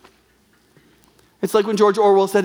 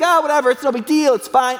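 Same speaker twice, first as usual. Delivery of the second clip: mock dismissal; 5 semitones higher than usual. Preacher mimicking a dismissive listener, scoffing. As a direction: toss it off like it's nothing, mockingly. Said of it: "You wanna mock it".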